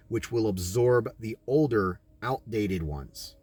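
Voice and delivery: measured, even voice-over read; documentary narration. Acted. Narrator explaining scripture and cities, solemn voice-over.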